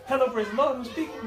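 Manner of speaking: sudden sugary phone voice mid-fight; mock pious hello; sweet churchy phone greeting. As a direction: switch to church politeness for the caller. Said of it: "That's how you have to answer the phone".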